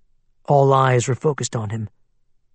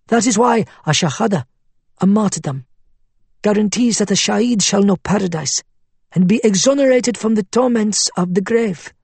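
persuasive cleric voice; 7 semitones higher than usual. Acted. Faiz explaining martyrdom.

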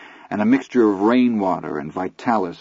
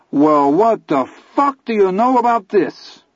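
sneering bully; 11 semitones higher, 4 dB louder than usual. Acted. Bully Ace taunts boys.

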